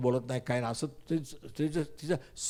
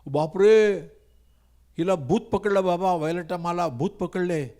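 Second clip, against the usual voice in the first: higher, louder mock gossip with gibberish; 4 semitones higher, 3 dB louder than usual. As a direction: ham up the scandalised neighbours. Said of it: "लोकांना काय म्हटलं माहिती आहे का".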